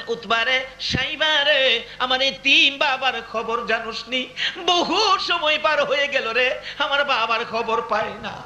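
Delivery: mildly plaintive chanted plea; tearful questioning. Retold or imitated. Fatema asking about her father, a mild imitated tearful plea. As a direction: draw out the calls in a restrained lament. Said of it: "Fatema কাঁদতে কাঁদতে ... প্রশ্ন করলেন".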